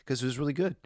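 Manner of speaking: choked up, laughing it off; moved to tears. Real, not acted. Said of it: "I tuned into the feeling".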